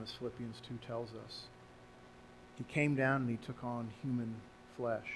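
earnest prayer led from the pulpit; pastoral prayer. Acted. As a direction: lead the church in heartfelt prayer. Pastor leads closing prayer.

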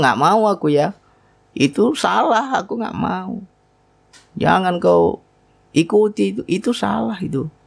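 soul refusing. Retold or imitated.

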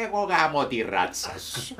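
heckler shout. Retold or imitated. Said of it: "μια φωνή που λέει".

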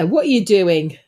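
lightly Cockney telling-off; a hint of Cockney challenge; accidental Cockney. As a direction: attempt at sternness that slips into Cockney. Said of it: "That sounded like Cockney".

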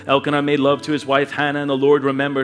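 measured, even Bible reading; scripture reading. A narrator's reading. Pastor reading Hannah's prayer to the congregation, measured scripture reading. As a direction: read the passage aloud evenly and reverently. Reads scripture aloud over music.

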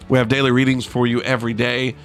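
normal talking voice

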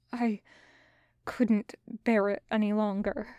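quiet, ashamed confession; wretched. Acted. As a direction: say it softly, full of shame. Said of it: "sounding wretched and ashamed".

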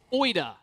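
oida said carefully as OY-duh; over enunciating. Shown as a demonstration. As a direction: spell out oida syllable by syllable. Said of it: "Everybody say oida".

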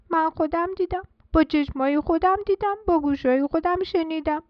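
convince them you saw it yourself; lightly voiced earnest chick; insistent little chick.

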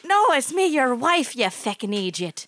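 put-on sudden Irish accent. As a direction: slip into an Irish wife voice. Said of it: "Why are you Irish all of a sudden?".

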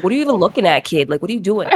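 mock New England challenge; lightly hard-edged New England accent; hard northern accent. Acting out meeting someone on the sidewalk, New England accent. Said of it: "accents come out really hard like this".

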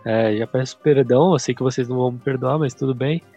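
stuffy nose, nasal voice; blocked nose. Real, not acted. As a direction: talk through a blocked nose. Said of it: "meu nariz tá entupido".

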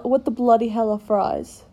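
mock British bafflement; British accent. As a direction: play a baffled Brit. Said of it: "British people say".

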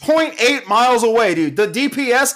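high-pitched incredulous rant; worked-up shrieky outrage; outraged screaming. Real, not acted. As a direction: screech it in disbelief. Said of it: "Madeline just texted me that I'm screaming".

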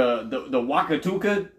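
Wakatuka said as a made-up place name, wah-kah-TOO-kah. Pretend. Joking about foreign place names, says Wakatuka. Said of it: "Just making up names".

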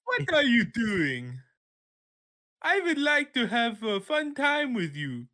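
creepy impression. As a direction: play a creepy character greeting Noah. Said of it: "my impression I sent you".

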